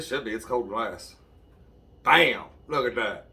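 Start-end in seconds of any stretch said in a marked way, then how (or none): 2.0-2.4 loud proud bam; excited shout. Real, not acted. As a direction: shout it like a triumph. Candle stands up, proud reveal.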